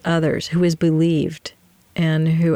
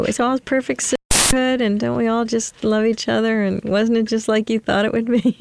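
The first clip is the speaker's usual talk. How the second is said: sarcastic; 5 semitones higher than usual. Acted. Sarcastic mock of sisterhood ideal.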